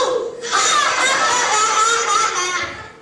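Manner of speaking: loud mocking laugh; gleeful shouted laughter. Kids jeering at the wolf, loud laughter. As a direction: laugh at him in triumph. Kids gloat after taunt.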